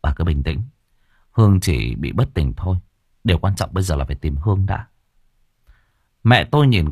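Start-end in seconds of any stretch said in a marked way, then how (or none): 0.0-4.9 reassuring. Acted. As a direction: settle her down gently. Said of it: "Tôi trấn an".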